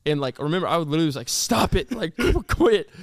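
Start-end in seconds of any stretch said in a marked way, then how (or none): 1.3-2.9 higher-pitched mock snap, laugh breaking in; tired but direct. Student mistaking teacher for mom, tired but direct. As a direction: imitate a blunt protest from sleep. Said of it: "it was a tired voice, but it was so direct".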